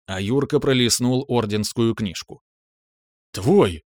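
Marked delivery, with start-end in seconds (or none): none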